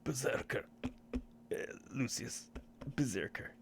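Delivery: hushed whispered names. Real, not acted. GM whispering the character's name in the outro, hushed. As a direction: breathe the words under your breath.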